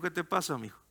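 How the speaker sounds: put-on soft, tender question to a child; quietly concerned dad, retold; gentle father. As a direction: ask softly, as to an upset child. Father voiced gently in story.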